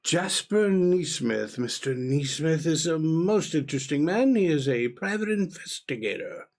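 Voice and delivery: lightly voiced formal papa; a touch of old-fashioned flourish; genial gentleman father. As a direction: introduce a guest grandly to a small child. Plays formal father introducing guest.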